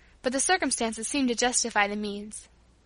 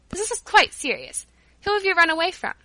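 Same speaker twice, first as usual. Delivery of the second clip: higher, louder, mock-serious questioning; suddenly grave; 7 semitones higher, 5 dB louder than usual. A narrator's reading. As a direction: question the child with some gravity. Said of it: "appeared to grow suddenly grave".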